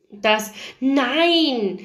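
exclaimed, with a rising swell on "nein"; blurted out. A narrator's reading. Paige beside the narrator blurts a protest, exclaiming. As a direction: burst out on the "nein". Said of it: "stieß Paige neben mir aus".

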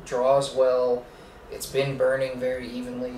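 talking around a cigar; speaking while exhaling smoke; cigar in mouth. Real, not acted. Seen 0: right man holds cigar at lips, exhaling smoke; speaker unsure.

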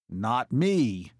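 cocky, drawn-out crow. A narrator's reading. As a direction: crow it proudly. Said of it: "Max crowed".

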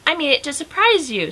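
pleased, lifted storybook voice; happy. A narrator's reading. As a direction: say it happily, pleased with the surprise. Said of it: "said Amelia Bedelia happily".

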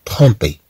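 trompé with om sounded as on. Shown as a demonstration. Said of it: "كأننا ننطق هاد ام كأن". (نطق m في trompé مثل n)

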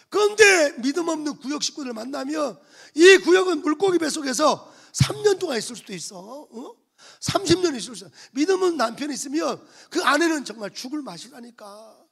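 loud, emphatic pulpit warning; fiery preaching. Acted. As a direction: hammer the warning home from the pulpit. Preaching loudly to the congregation.

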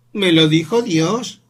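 niño muy agudo, lento y fuerte; terco. Acted. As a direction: insiste sin ceder. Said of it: "no queriendo dar el brazo a torcer". (niño terco ante su madre, agudo y lento)

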